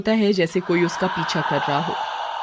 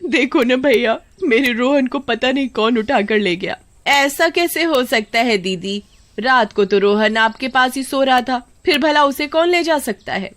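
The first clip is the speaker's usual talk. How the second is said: worried relatives; 5 semitones higher than usual. Acted. Family voiced in alarm.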